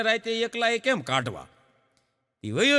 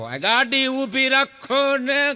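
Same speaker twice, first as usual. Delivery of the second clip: insisting wife; 4 semitones higher, much slower than usual. Retold or imitated. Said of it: "એના ઘરવાળાને કહે".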